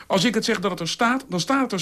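heel hoog en dwingend; koppig. A narrator's reading. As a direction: zet het koppig door. Dolf drukt zijn gelijk door. (koppige Dolf, hoog)

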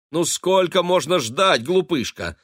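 high, loud impatient call; exclaiming. A narrator's reading. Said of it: "воскликнула она".

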